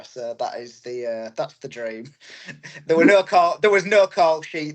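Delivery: normal talking voice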